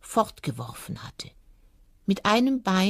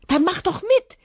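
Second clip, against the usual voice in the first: high, loud, cheerful invitation; merry hare; 5 dB louder than usual. Acted. Hare inviting the fox to join in, merry. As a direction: call it out high and merrily. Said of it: "lachte der Hase".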